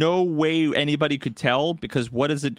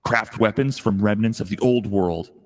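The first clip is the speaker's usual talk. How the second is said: horror trailer voice; 3 semitones lower than usual. Pretend. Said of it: "stock trailer voiceover".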